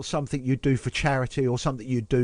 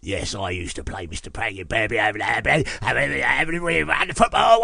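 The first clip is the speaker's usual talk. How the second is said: Mister Peggy voice. Retold or imitated. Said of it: "used to play the character Mister Angry Pants".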